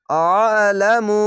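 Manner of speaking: very slow আলামু with a heavy throat-pressed আ; throat-pressed recitation. Shown as a demonstration. Teacher models আলামু with a heavy throaty আইন. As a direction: squeeze the throat on the আ of আলামু and draw it out. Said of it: "আইনটিকে মোটা করে গলা চিপে পড়বেন".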